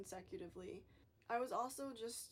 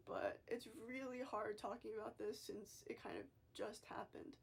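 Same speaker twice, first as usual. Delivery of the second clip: fighting tears. Real, not acted. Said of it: "I'm trying not to cry in this video".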